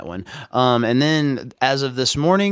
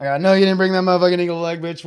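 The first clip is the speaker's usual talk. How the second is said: higher, fast tough-guy taunt; imitating character; 7 semitones higher, 4 dB louder, faster than usual. Retelling a Trailer Park Boys scene, quoting a taunt higher and fast. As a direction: fire off the insult like the character.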